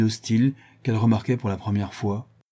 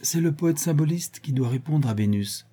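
sweet, higher-pitched, unforced voice; kindly explaining; 7 semitones higher than usual. A narrator's reading. Bijou tells Jean who answers Venus, gently. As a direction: explain it nicely. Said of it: "Bijou expliqua gentiment".

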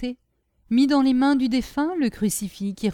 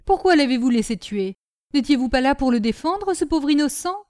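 higher, louder accusing questions; scolding reproach; 5 semitones higher, 5 dB louder than usual. A narrator's reading. Nanon reproaching the brigadier for the boy's death, scolding. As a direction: take him to task, grumbling. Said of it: "d'un air grondeur".

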